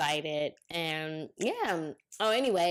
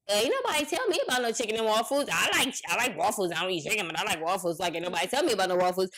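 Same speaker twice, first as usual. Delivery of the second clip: indignant protest; 2 semitones higher, faster than usual. Retold or imitated. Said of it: "And I'm like".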